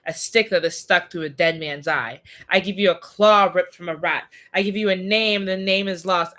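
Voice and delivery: solemn, measured spell recitation; incantation. Acted. Magician reciting a spell to capture Death, solemn incantation. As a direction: intone each offering as part of a ritual.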